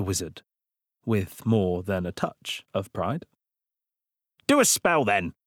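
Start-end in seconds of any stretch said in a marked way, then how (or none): 4.5-5.3 demanding. Acted. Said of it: "demanded Blart".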